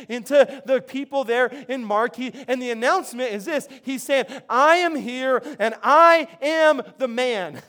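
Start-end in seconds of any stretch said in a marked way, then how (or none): 4.5-7.6 slow, loud and proud, declaring it; Jesus proclaiming he is the man, slow and loud; bold proclamation. Retold or imitated. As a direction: announce yourself as the stronger one. Jesus announcing himself.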